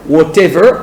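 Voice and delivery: British "whatever" with a crisp T; British English pronunciation of "whatever"; British accent. Shown as a demonstration. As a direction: say "whatever" the British way, T fully sounded. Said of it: "accent britannique".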